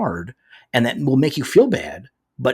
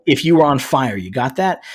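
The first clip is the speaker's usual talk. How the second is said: mock aggressive rant, winding up; Punisher; 4 dB louder than usual. Co-host reads out the show's speech, mock indignation. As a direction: finish on a hammed-up challenge. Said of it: "here's the speech that he gives".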